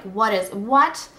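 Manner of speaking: slow, loud, rising retold bewilderment; bewildered disbelief. Girl watching forensics tear up her house, bewildered. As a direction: stretch it out, totally baffled.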